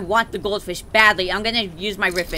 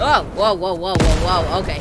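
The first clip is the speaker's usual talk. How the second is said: startled whoa; 5 dB louder than usual. Real, not acted. Sudden jump mid-game.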